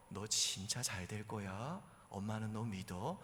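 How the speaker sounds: soft, low, slow mother's blessing; gentle. Acted. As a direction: reassure your child tenderly, unhurried. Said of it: "그렇게 부드럽게 말이 나오고".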